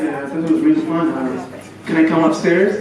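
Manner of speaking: lightly voiced guy angling to come up; hopeful guy. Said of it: "you're like".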